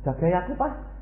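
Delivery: imitating a child. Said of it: "anak mau tidur gini".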